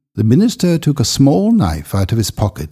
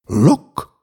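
excited; 6 semitones higher than usual. A narrator's reading. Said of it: "he said excitedly".

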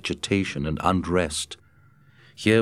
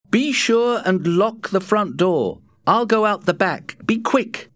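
higher urgent Matt; urgent cry; 13 semitones higher, 4 dB louder than usual. A narrator's reading. Matt rushing Scott to the steamboat, urgent higher cry. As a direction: hurry him, urgent and up. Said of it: "cried Matt".

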